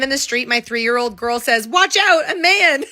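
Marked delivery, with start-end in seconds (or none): 1.7-2.8 higher-pitched mock child's alarm; imitated warning. Three-year-old girl spots a man in the street, mock warning. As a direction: call out a playful warning, high.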